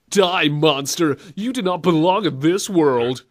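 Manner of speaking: slow, hammed-up cheesy defiance; mock a corny hero, drawing out the words; kiddie-show hero. Co-host mimics cheesy hero facing Dracula, childish slow taunting. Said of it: "kind of thing I'd expect from a kiddie show".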